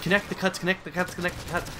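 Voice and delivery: voiced mental patient. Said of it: "her mom's like".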